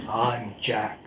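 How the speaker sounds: Geordie accent, second try. Shown as a demonstration. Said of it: "I'll do it again for you".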